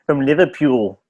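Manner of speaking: mock Liverpool accent; English accent. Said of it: "English accent".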